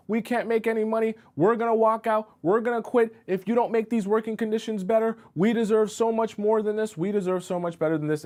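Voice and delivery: high-pitched, pushy list of demands; acted angry demands. Coworker demanding better conditions from the boss, high acted anger. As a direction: threaten to walk out, rising and insistent. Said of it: "he's throwing a tantrum".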